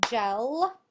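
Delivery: Gel as one loud, held beat; clapped syllable. Shown as a demonstration. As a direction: punch out Gel loudly, stretching the L. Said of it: "Let's clap".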